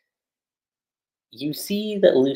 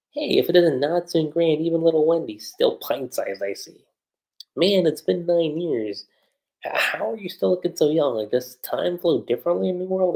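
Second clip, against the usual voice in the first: put-on higher-pitched character greeting old friends; acted reunion greeting; 6 semitones higher than usual. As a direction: greet long-lost friends in a raised voice.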